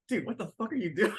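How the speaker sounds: high voice, laughing through the line; giggling imitation of a panicked friend; laughing mock panic. Bertolt panics at Reiner's reveal.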